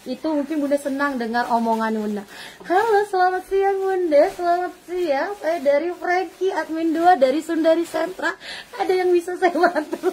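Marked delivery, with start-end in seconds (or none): 2.7-10.1 friendly admin two. Retold or imitated. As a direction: charm the caller with a melodic greeting. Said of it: "admin saya itu semuanya ramah-ramah".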